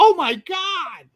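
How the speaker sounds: very high, very loud, alarmed freaking-out outburst. Retelling watching a scary movie with a grandmother: imitating grandmother freaking out. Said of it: "Freaking out".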